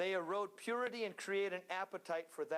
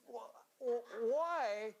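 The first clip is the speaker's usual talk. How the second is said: laughing; 6 semitones higher than usual. Real, not acted. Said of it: "I'm trying to figure this out".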